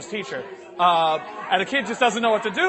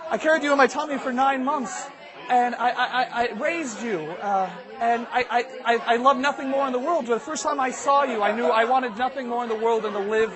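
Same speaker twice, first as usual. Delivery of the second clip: a touch higher, halting declaration of love; tender mother; 4 semitones higher than usual. Acted. Mother coaxes son to tell, mildly tender. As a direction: coax with mildly sentimental motherly devotion.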